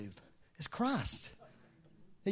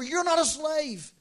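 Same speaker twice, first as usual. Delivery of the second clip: tender insistence; 10 semitones higher, 3 dB louder, slower than usual. Acted. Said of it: "That's what he was trying to tell him".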